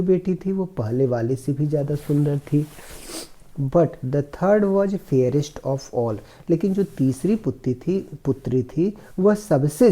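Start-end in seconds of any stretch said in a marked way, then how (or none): 3.6-6.2 slow, careful reading of the English passage; slow reading aloud. Shown as a demonstration. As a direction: read each word slowly for the class. Teacher reads story slowly. (धीमी आवाज़ में अंग्रेज़ी पढ़ना)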